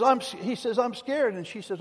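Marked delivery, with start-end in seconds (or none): 0.0-0.3 lightly imitated frightened little boy, higher pitch; a hint of a scared kid; mock-timid, raised voice; scared child. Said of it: "man, it scared him". 0.8-1.3 lightly imitated frightened little boy, higher pitch; a hint of a scared kid; mock-timid, raised voice; scared child. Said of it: "man, it scared him".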